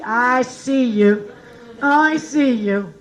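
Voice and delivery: slow, drawn-out words; knowing recognition. Acted. Spotting a stripper by the feet, slow and knowing. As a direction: stretch every word knowingly.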